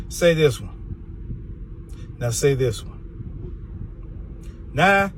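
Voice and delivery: slow, hushed whisper. Acted. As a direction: whisper the challenge very slowly. Quizzing viewers on word sounds.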